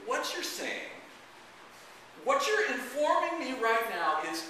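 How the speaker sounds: high, loud, slow incredulity; stunned disbelief. Acted. Father struggles to restate daughter's news, incredulous. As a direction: spell it out in rising alarm.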